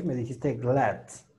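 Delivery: "glass" ending in a slight T, like "glat"; imitating error. Teacher imitates a student's added T. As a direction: mimic the student's "glass" with a T on the end. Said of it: "Metiste un poquito de T".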